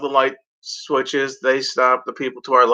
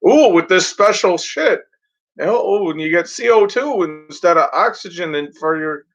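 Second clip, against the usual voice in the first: mock salesman; 5 semitones higher than usual.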